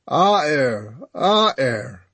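weak breathy moan. Acted. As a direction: breathe the words out, barely voiced. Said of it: "in a breathy voice".

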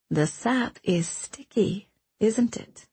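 slow, gentle, amused question; smile in her voice. A narrator's reading. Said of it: "a smile in her voice".

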